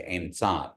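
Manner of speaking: em san dropped low. Shown as a demonstration. Teacher explains the tones to students, low em san. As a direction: let the pitch fall on em san. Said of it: "and they go down".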